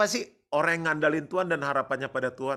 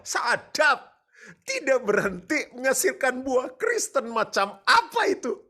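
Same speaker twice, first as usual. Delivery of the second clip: fired-up exclamation; 11 semitones higher, 6 dB louder, slower than usual. Real, not acted. Excited preacher outburst.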